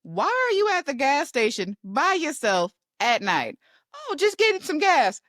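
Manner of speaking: high, breezy reply; a touch of mock carefree mom; mom's casual answer. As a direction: answer lightly like nothing's wrong. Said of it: "where I ask".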